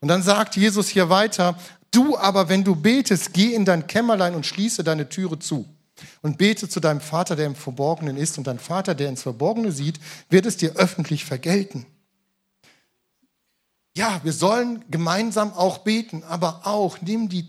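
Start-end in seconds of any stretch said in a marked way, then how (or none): 1.9-11.8 scripture reading. Acted. Reads scripture aloud.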